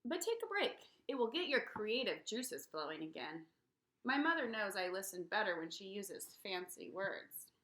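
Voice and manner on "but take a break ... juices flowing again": mom's advice. Acted. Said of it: "my mom tells me".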